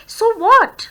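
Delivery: high and loud, "what" thrown upward; stress on what. Shown as a demonstration. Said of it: "what पे हम stress देते हैं". ("what" पर ज़ोर, उठती आवाज़)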